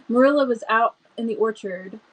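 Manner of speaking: hurried and excited; excited rush. Shown as a demonstration. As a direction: reader rushing ahead, too eager. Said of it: "Let me slow down. I'm so excited".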